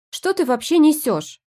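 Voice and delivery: loud but unconvincing snap; unconvincing bark. Acted. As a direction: try to bark, fall short. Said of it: "рявкнула я".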